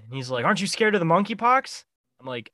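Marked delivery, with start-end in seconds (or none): 0.5-1.8 put-on high slurred drunk voice; town drunk. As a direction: play the drunk at the store. Drunk guy voiced in story.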